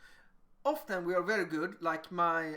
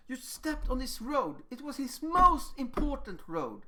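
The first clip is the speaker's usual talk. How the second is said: higher-pitched, stressing how much it mattered; emphatic explaining; 4 semitones higher than usual. Acted. Interpreter explaining a child's feeling to another, emphatic explaining. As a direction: make the other child's hurt sound important. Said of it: "how I'm really emphasizing this feeling".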